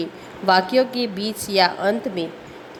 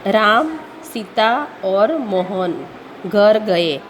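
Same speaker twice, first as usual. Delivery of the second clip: short pause after "Ram", then slowly on; deliberate teacher's reading, pausing after "Ram"; pause at comma; slower than usual. Shown as a demonstration. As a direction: set "Ram" apart with a clear comma pause. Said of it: "रुकने के लिए करते हैं".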